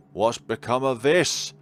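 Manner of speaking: alarmed. Real, not acted. Reading scene, rising alarm.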